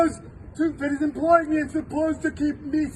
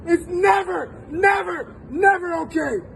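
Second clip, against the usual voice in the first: emotional outcry. Real, not acted. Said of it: "I'm getting emotional".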